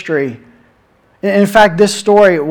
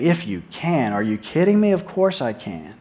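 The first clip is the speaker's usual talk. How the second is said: incredulous, sarcastic retort; 2 semitones lower, 5 dB quieter than usual. Shown as a demonstration. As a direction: throw it back as mildly sarcastic disbelief. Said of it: "sort of sarcastically".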